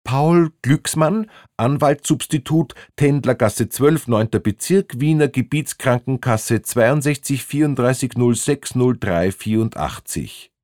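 slightly acted recital of an address; lightly voiced cornered man. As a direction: reel off personal data, starting high and settling down. Man reels off invented personal details.

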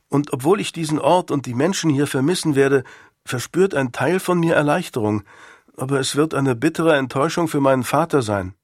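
a hint of a boy confessing mixed feelings; lightly voiced schoolboy, torn. Pupil tells master he is relieved to leave, lightly voiced regret. Boy Nick's dialogue in story.

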